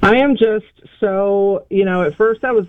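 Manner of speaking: halting, stumbling over words; stammering, searching for words; stuttering. Real, not acted. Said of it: "I'm stuttering".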